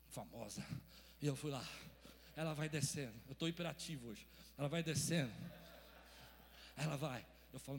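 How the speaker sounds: ordinary delivery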